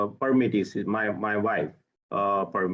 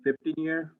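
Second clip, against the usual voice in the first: repeated louder and higher; 6 semitones higher than usual. Real, not acted. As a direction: say it again so they can hear. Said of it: "You gotta talk louder".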